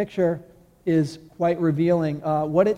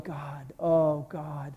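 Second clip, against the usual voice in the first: godly sorrow; slower than usual. Retold or imitated. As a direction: pray it out in slow remorse. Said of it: "godly sorrow going".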